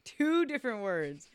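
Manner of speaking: talking through a mouthful of fries; mouth full. Real, not acted. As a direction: say it around a mouthful of food. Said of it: "Full of French fry mouth".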